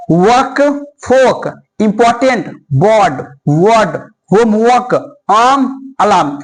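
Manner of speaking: slow, clear non-rhotic list; each word with the r left silent; silent r drills. Shown as a demonstration. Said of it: "सुनिए ध्यान से".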